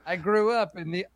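high, theatrical reminiscing voice; mock storyteller. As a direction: launch a hammy origin tale. Parodies a character reciting backstory.

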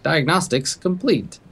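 a lightly voiced robotic computer; tinny machine voice. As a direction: read it like a tinny diagnostic machine. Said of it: "in its, like, tinny voice".

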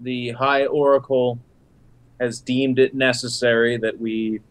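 slow, grand and ceremonial; solemn pronouncement. Acted. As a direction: declare it like a temple decree, slowly. Character bluffs a formal pronouncement.

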